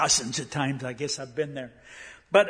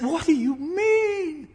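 higher, slow, voice catching with tears; choked up; 12 semitones higher, slower than usual. Retold or imitated. Preacher overwhelmed by the old lady's prayers, choked up. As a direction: ask it barely holding back a cry.

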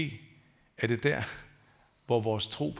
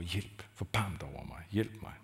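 quiet inner cry; 4 semitones lower, 7 dB quieter than usual. Retold or imitated. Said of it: "der råber".

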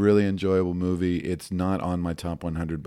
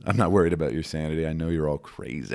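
roller rink DJ voice; 2 semitones lower than usual. Acted. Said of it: "DJ at a roller rink voice".

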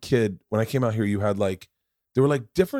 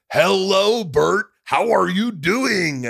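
put-on Mexican accent; 8 semitones higher, 4 dB louder, much slower than usual. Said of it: "someone Mexican was like".

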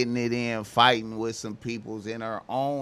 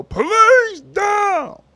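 a mock white cop's shout, high, slow and drawn out; white cop yelling; 10 dB louder, slower than usual. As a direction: bark it like a white cop taking charge. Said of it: "white man voice yell".

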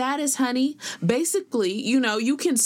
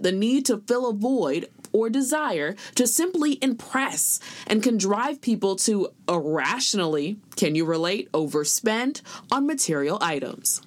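reporter voice. Acted. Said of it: "That was a very good reporter voice ending".

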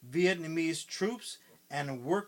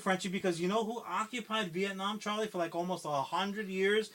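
mock taunt; 3 semitones higher, 5 dB louder than usual. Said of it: "now they're like".

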